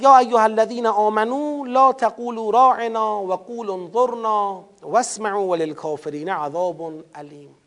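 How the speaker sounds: measured Arabic recitation of the verse; chanted scripture reading; Quran recitation. Acted.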